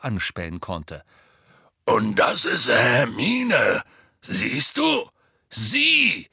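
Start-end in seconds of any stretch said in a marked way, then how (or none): 1.8-6.3 loud, slow, emphatic introduction; Hagrid. A narrator's reading. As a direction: point her out loudly to a slow listener. Hagrid introduces Hermine to giant. (laut, langsam und deutlich vorstellend)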